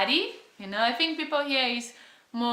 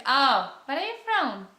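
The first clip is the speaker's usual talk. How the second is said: lightly mimicked eager questioning, pitched up; curious Australians; 6 semitones higher than usual. Imitating Australians quizzing a newcomer, bright and curious. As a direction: rattle off the locals' nosy questions. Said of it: "they ask".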